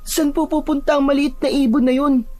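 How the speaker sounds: put-on very high-pitched child's question; curious child. Child asking grandmother where the bird goes, curious high voice. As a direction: wonder aloud in a small child's voice.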